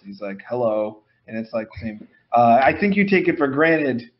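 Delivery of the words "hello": slightly lowered mock greeting; low-pitched voice. Imitating a guy asked for his low voice, slightly low. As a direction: imitate a half-hearted low voice. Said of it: "Do your low-pitched voice".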